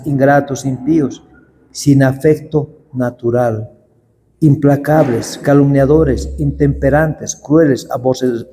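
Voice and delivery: slow, measured Bible reading; unhurried scripture recital. Acted. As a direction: read the verses out deliberately. Reads 2 Timothy aloud.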